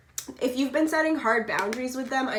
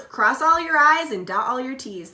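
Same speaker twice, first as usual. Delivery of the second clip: slip of the tongue; 2 semitones higher, 8 dB louder than usual. Shown as a demonstration. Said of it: "I almost just said".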